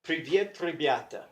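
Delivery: careful Russian "Привет, ребята"; Russian greeting read aloud. Shown as a demonstration. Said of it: "just the first sentence in this text was".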